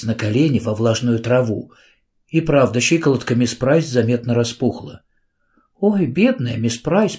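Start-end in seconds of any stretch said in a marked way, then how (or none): 5.8-7.2 tearful pity. A narrator's reading. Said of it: "повторила Кэрри".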